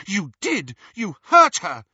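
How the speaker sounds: high, loud furious blame; angry accusation. Acted. Lily accuses Snape of hurting her sister, high and loud. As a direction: hurl the accusation at him.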